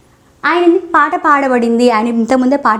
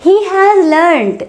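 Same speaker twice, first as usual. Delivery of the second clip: each word drawn out slowly for learners; deliberate teacher pacing; slow model phrase; 5 semitones higher, much slower than usual. Shown as a demonstration. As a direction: say it slowly so the class can follow. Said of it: "teacher models the sentence".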